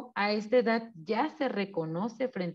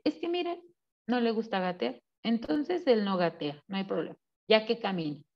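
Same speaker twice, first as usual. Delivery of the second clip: excusing mother; 4 dB quieter, faster than usual. Retold or imitated. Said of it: "Y su mamá dice".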